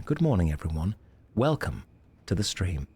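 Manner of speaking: lightly posh British RP greeting; British received pronunciation. Shown as a demonstration. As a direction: greet the stream in a hint of British RP. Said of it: "get into the more British received pronunciation".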